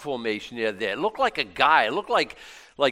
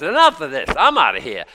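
fed-up outburst; 3 semitones higher, 8 dB louder than usual. Retold or imitated. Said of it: "Anytime he goes".

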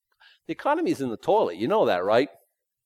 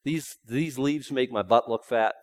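mock fussy wife; 2 semitones lower than usual. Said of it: "a girl flower saying to a husband flower".

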